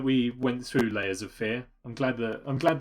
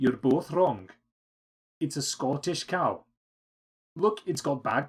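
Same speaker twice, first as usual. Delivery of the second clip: poorly done, put-on Scottish accent. Telling a joke, voicing the Scotsman, failed Scottish accent. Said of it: "the Scottish accent went so badly".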